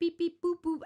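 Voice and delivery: loud, high beep-boop ATM noises; mock machine beeps. Client playing a human ATM, loud mock beeps. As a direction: chirp like a cash machine keypad. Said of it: "he'd make the noises?".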